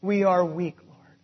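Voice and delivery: prayer. Acted. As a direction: pray humbly on behalf of the congregation. Leads closing prayer.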